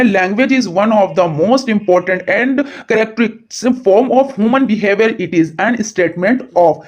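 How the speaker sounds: deliberate, spelled-out quiz reading; slow question reading. Acted. Teacher reading a quiz question slowly to exam students. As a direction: read each English word out slowly for the class.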